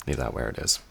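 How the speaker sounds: a quiet command, no argument; father forbidding the sword; stern father. Acted.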